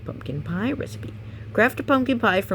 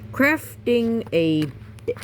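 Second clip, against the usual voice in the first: dramatic title read; 6 semitones higher, much slower than usual. Shown as a demonstration. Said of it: "repeated plainly".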